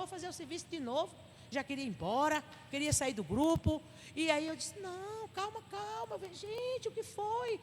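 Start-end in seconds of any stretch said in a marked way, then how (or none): 4.8-7.6 high, soft, drawn-out calming; soothing concern. Retold or imitated. Leader calming an upset volunteer, soothing concern. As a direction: gently coax them to calm down.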